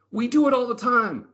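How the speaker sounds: put-on high, casual old lady voice; squeaky granny shrug. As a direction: brush it off like everyone knows. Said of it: "old lady answers".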